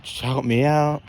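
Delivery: a touch of whiny frustration; retold anger. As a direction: replay an angry demand, only half heated. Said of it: "I was getting angry".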